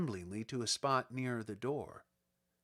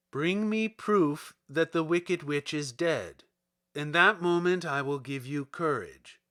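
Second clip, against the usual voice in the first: stern wizard; 5 dB louder than usual. Acted. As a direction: hand down the terms sternly. Oz voice from fire.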